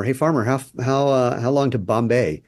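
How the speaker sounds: a light mock shout asking the way; retold yell. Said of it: "yells to the farmer".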